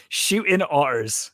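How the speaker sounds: slow broad Bristolian "Shooting otters"; drawn-out West Country "Shooting otters"; Bristolian accent. Shown as a demonstration. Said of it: "how Bristolian can you get by saying that".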